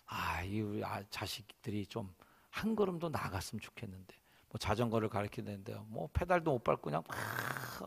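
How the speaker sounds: low, soft fretting; frustrated father. Acted. Father watching his child fail to pedal, quietly frustrated. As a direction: grumble to yourself about the child.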